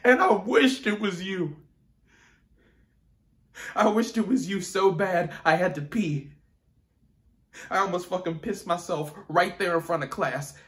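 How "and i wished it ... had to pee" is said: high, loud, raw anger; furious confession. Acted. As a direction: hurl it at an absent father.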